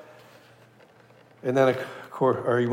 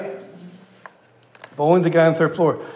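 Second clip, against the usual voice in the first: slow, deliberate repeat of the punchline; slow emphasis; 3 semitones higher, slower than usual. Real, not acted. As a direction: drag it out so it sinks in. Preacher repeats punchline slowly.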